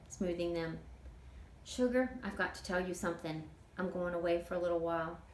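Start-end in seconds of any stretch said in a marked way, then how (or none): 1.6-5.2 easygoing Southern auntie dreaming aloud; a hint of a chatty older woman; Toot, folksy older woman. Toot's voice in read story.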